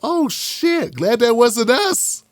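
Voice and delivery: acted-out relieved reaction; mock relief. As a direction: breathe out high and slow, as if narrowly spared. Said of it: "were all like".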